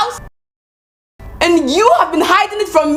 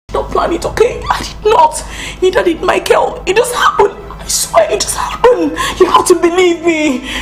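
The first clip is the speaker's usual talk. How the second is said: tearful laughing plea. Acted. Woman pleading, half laughing half crying.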